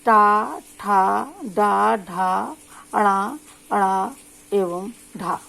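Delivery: टा ठा डा ढा with the tongue curled back, slow; slow retroflex drill; retroflex sounds demo. Shown as a demonstration. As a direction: drill the retroflex row clearly. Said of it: "इसके जो वर्ण है".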